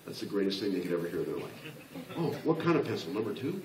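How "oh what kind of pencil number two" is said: eager melancholy type. Retold or imitated. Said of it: "That's what they ask you".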